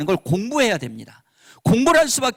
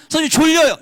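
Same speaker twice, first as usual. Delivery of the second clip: whiny student; 9 semitones higher, 6 dB louder, faster than usual. Shown as a demonstration. Student voiced whining.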